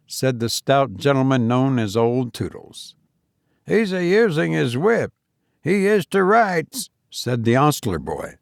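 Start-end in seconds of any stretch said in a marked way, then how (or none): 3.7-6.9 high, eager London stable lad; cockney boy. A narrator's reading. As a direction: chirp it like a young ostler. Ostler boy speaks.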